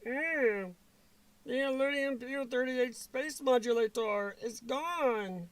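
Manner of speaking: slow, drawn-out cartoon character voice; struggling cartoon impression; failed cartoon voice. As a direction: stretch it out in a put-on character voice. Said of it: "See, I can't even do it right".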